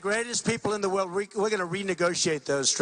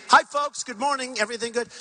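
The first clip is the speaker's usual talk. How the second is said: stroll back in and greet the room; breezy greeting; 3 semitones higher than usual. Acted. Acted greeting entering negotiations again.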